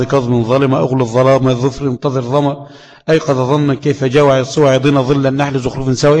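quick chanted recital of the poem's word list; verse recitation. Shown as a demonstration. Teacher reciting the Jazariyya dad verses for students. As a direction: rattle off the memorised verses.

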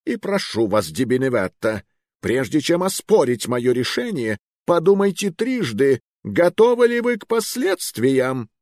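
rising, threatening royal warning; menacing warning. Acted. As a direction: warn him with menace. King warns the duke.

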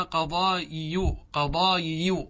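قضايي said slowly as qaḍāyiyu, with two y sounds; slow teacher's demo of قضايي as qaḍā-yi-yu. Shown as a demonstration. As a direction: draw out قضايي, sounding both ya letters. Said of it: "بياءين".

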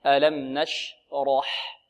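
very slow ألم نشرح with a heavy ra; slow model. Shown as a demonstration. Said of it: "واضح".

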